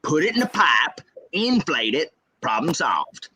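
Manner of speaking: lightly voiced Southern dad; dad's voice. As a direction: mimic dad ticking off easy steps. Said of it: "that's how my dad talks".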